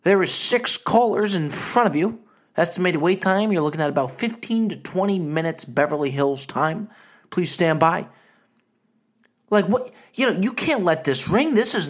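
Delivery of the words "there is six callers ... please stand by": mock hold recording. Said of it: "They may pick up and say".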